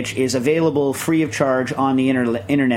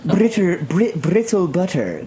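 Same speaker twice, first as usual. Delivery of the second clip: announcer voice; 5 semitones higher, slower than usual. Shown as a demonstration. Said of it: "Say it in your, in your, uh, I'm announcing the puffing gun voice".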